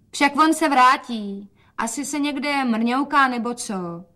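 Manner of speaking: put-on a soothing girl's voice, drawn out; daughter's voice.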